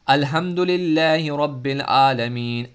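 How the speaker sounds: tajweed-style recitation; Arabic recitation. Shown as a demonstration. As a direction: recite the verse deliberately. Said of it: "मसलन".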